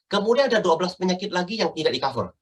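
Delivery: quick, emphatic run dropping at "tidak di-cover"; falling emphatic tone. Shown as a demonstration. Trainer mimics a wrong reading of exclusions, falling emphasis. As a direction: highlight the exclusion, then let it fall. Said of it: "turun lagi".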